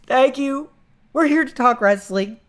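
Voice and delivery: high, shouted gushing thanks; fanboy shout. Pretend. Fan greeting host Phil on air, high shouted thanks. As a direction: shout thanks at your idol. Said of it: "me, like".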